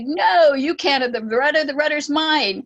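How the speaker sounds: possessive no, guarding what's his; a childish clinging refusal; insistent refusal. Retold or imitated. Bill refusing again, insisting.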